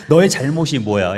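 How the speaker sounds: loud acted demand; angry interrogation. Wife asking husband what he did wrong, angry interrogation. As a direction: press hard for a confession.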